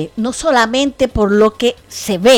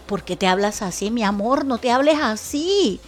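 tender friend. Retold or imitated. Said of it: "que le digo".

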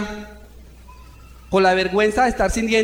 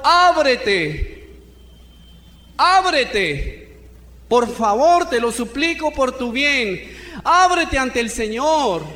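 raised, urgent preacher's appeal; fervent preaching; 2 semitones higher than usual. Acted. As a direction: rouse the congregation to open up. Preaches to the congregation. (predicación fervorosa, con voz elevada)

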